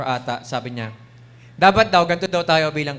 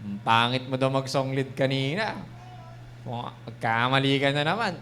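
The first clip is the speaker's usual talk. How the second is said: accusing devil voice; 3 semitones lower, 4 dB quieter than usual. Acted. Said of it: "Yung ganun yung boses ng demonyo".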